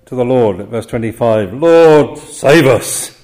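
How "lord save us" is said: louder, pleading cry, the last words drawn out slowly; desperate cry for help. Acted. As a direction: call out to be saved from drowning. Disciples crying out in the storm.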